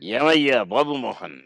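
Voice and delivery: slow, drawn-out imitation of Mohan Babu on the first words; lightly voiced veteran star teasing; a hint of Mohan Babu's teasing drawl; Mohan Babu impression. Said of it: "ఎలా అంటారు sir ఆయన?".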